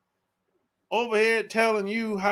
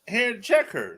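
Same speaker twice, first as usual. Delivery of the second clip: ordinary delivery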